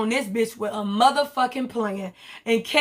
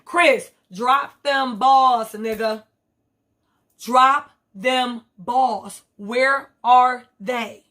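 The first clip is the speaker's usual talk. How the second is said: mock demand; 3 dB louder, much slower than usual. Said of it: "Here go Chris".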